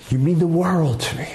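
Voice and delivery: plainly sincere, not overdone. Shown as a demonstration. To a child, simply and sincerely saying you mean the world.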